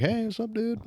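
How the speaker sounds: high, sing-song innocent hello; innocent greeting. Retold or imitated. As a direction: play it fake innocent. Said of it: "I'm like".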